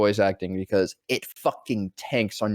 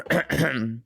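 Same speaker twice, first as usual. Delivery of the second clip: high squeaky Harley Quinn; slower than usual. Retold or imitated. Voice actor showing how Harley Quinn greets Mister J. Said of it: "she does her Harley Quinn voice".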